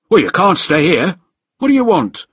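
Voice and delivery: high, loud demand; shouting challenge. A narrator's reading. Guard confronting a stranger who landed, shouting. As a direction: order the intruder off, loudly.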